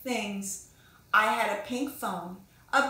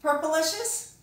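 asking question; 5 semitones higher than usual. Shown as a demonstration. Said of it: "Have you read Pinkalicious?".

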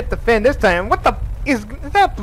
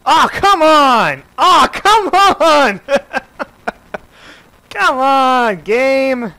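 frustrated groan; 2 semitones higher, 3 dB louder, much slower than usual. Real, not acted. Frustrated at locked door.

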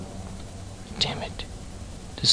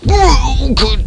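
sarcastic; 13 semitones higher, 5 dB louder than usual. Real, not acted. Sarcastic exclamation.

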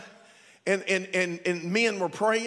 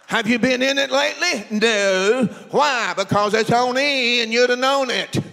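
loud mock marital quarrel; acted scolding wife, pressing hard; raised angry voice; 2 semitones higher, 5 dB louder than usual. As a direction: fire accusing questions at full voice. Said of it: "voice raises up".

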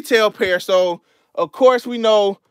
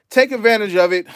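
out of breath; faster than usual. Real, not acted. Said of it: "I'm out of breath".

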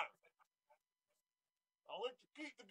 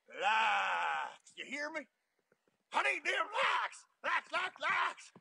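begging for likes like a junkie; desperate craving; much slower than usual. Acted.

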